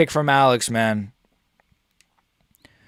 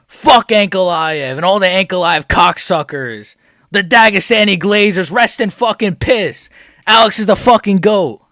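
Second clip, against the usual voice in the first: gloating rant. Real, not acted. Gloating continues.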